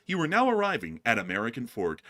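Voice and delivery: lightly voiced, even train announcement; a hint of a routine station announcement; English train announcer. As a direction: announce the stop matter-of-factly. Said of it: "the English one's like".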